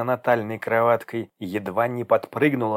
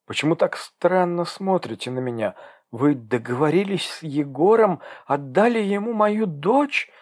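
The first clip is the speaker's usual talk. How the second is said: despairing cry; 6 semitones higher than usual. Acted. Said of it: "вскрикнула девушка обречённо".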